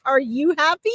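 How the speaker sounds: lightly voiced happy dad, rising question; jovial questioning. Medium relays dad's reply to Liz about her marriage, jovial questioning. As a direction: ask it with a mild, jovial lift. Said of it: "big booming laughter and he's like".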